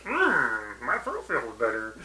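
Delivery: low, soft character murmur; understated imitation of a soothed bar patron; lightly voiced customer. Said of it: "and he's like".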